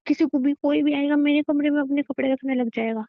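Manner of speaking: angry outburst. Acted. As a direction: rant at him, indignant. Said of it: "शांत हो जा".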